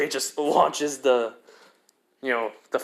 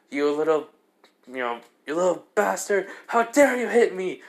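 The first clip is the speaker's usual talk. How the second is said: acted indignation; 4 semitones higher than usual. Stray Devil to the one who hit it, acted indignation. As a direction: pitch climbing into mock outrage. Struck devil snaps back.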